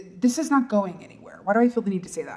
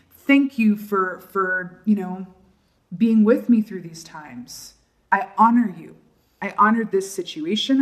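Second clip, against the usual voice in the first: spoken gratitude prayer. Shown as a demonstration. Gratitude affirmation ritual spoken aloud.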